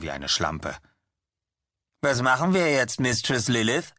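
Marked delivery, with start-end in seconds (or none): 2.0-3.9 higher, pleading question; eager follower. Acted. Chad asks his mistress what to do, higher and wheedling. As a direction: lean in, wheedling.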